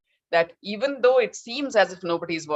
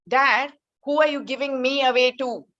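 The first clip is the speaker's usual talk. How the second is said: put-on a lightly raised boy's voice, puzzled; hint of a young son questioning; child asking father; 6 semitones higher than usual. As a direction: ask it as a curious son, a touch higher. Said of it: "So he said".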